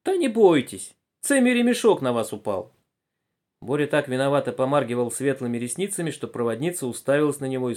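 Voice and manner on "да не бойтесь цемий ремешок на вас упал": high, soothing Ukrainian lilt; gentle Ukrainian accent. A narrator's reading. Passenger reassures a frightened woman, gentle Ukrainian accent. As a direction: reassure them in kindly Ukrainian speech. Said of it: "прозвучал ласковый украинский говорок".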